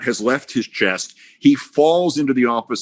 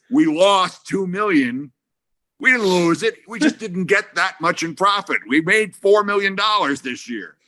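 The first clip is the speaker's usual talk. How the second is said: explaining patiently; 9 semitones higher than usual. Retold or imitated.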